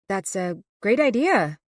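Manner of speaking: a touch of put-on cheer, not quite meant; forced enthusiasm. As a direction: sound keen without feeling it. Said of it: "I infuse my voice with an enthusiasm I don't feel".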